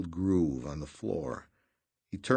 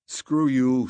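louder and higher angry retort; defiant shout; 6 semitones higher, 8 dB louder than usual. A narrator's reading. Redrick refuses to pick up money, loud defiant shout. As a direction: fling it back defiantly.

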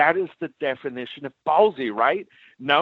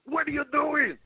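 heated confrontation; 3 semitones higher than usual. Retold or imitated. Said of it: "I was so prepared to say".

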